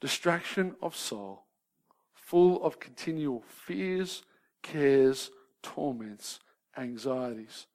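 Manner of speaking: slow, measured solemn reading; reading a quote. Shown as a demonstration. Preacher quoting Burton on the depressed, slow and solemn. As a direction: read the old words gravely and slowly. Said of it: "He says".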